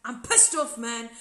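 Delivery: retelling his bitter confessional, mildly angry; a grumbling, irritated "pissed off"; bitter anger. Retold or imitated. To the producers in confessional, mildly angry. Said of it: "And I would be bitter, and I'd be angry, and be like".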